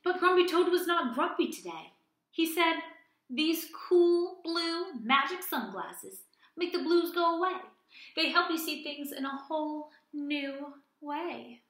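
cheerful Grumpy Toad, mildly voiced; bright turnaround, lightly played. Teacher reading Toad's lines.

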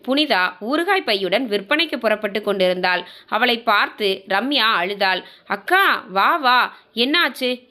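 measured storytelling with lightly acted dialogue; story narration. Narrator telling listeners of Ramya's downfall, story narration. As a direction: read it out as a domestic drama.

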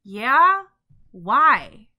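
loud, brusque comeback; loud, confrontational retort; brusque challenge. Acted. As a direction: throw it back loudly, upward then down. Rival snaps back at stranger's question.

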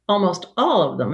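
"almost" set apart as a caveat; pointed qualifier on "almost"; stress on almost. Real, not acted. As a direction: lean on the word "almost". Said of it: "and notice the almost".

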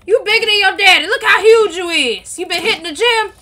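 loud, amazed gushing; excited high yelling. Real, not acted. Mom amazed at how big her son's character got, yelling high. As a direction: holler it high, over a headset. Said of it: "Why are you yelling so high?".

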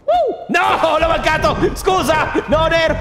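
panicked outcry; frantic shouting. Real, not acted. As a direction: shout in dismay. Missing a throw, shouting.

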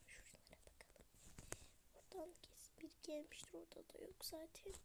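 soft, unvoiced and quick; whisper. Real, not acted. To herself while searching, whispering. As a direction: whisper like sneaking around. Sneaking in game.

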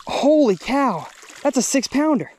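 can't believe the size; real excitement. Real, not acted. Angler telling viewers the bass's weight, excited.

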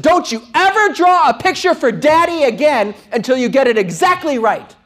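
put-on high, loud scolding of a child; angry yelling. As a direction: yell like a harsh father laying down the law. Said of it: "And I yelled at my daughter".

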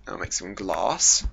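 slow, posh British delivery; posh British accent. Pretend. Gamer chatting to himself while smelting, posh British accent. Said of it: "a really posh British accent".

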